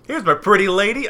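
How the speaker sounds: jolly high greeting, loud; high Tom Bombadil voice. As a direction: call out high and bright to the lady. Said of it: "he's a little more sing-song than this".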